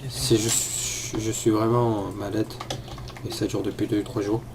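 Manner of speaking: stuffy, sniffly sick voice; sniffling with a cold. Real, not acted. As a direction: talk through a head cold, sniffling. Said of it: "Vous entendez que je renifle".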